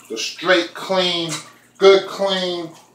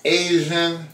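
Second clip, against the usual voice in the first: put-on Asian accent; 4 dB quieter than usual. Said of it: "here goes my Asian accent going on right now".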